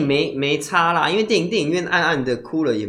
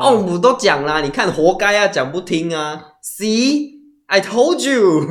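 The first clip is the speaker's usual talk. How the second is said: a touch of smug scolding, louder; mock told-you-so; 5 semitones higher, 4 dB louder than usual. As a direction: gloat lightly. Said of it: "像这样我也会很愤怒". (幸灾乐祸地说活该)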